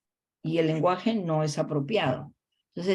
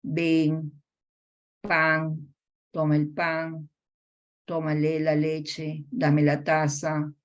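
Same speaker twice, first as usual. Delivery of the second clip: put-on short child-directed commands; much slower than usual. Shown as a demonstration. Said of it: "Los enunciados son cortos, simples".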